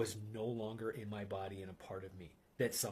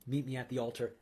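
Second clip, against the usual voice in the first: louder, with Meet stressed and pushed forward; firmer, louder call; 3 semitones higher, 6 dB louder, faster than usual. Retold or imitated. The voice in his mind summoning him to the altar, firm and louder. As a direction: give it more force, like a summons. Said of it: "immediately the voice said".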